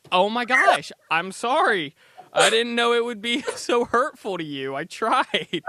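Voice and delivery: high, loud, hammed-up protest with a laugh; mock-hurt apology. Host answering friends who mocked the accent, mock-hurt. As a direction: overplay a wounded, sarcastic apology. Acted comeback to mocking friends.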